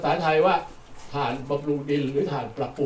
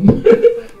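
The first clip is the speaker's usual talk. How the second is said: embarrassed laugh; 10 dB louder than usual. Real, not acted. Apologizing for his pronunciation.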